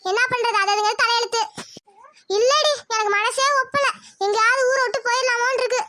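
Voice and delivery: tearful lament about her daughter; weepy, choking back sobs; crying mother. Acted. Mother crying to her younger sister over the shame. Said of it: "இதுக்கு ஏன்க்கா அழுகுற?".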